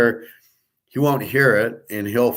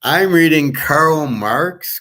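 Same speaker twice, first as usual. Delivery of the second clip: higher, drawn-out mock quote; mock quoting; 5 semitones higher, slower than usual. Quoting a communist's reading choice to listeners, mocking. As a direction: stretch out the quote in disbelief.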